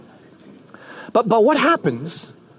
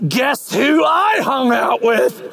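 bragging tease; 3 semitones higher, slower than usual. Acted. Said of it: "and then you're like".

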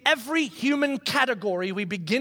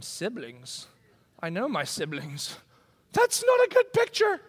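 skeptical congregation. Retold or imitated. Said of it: "Now you all are going".

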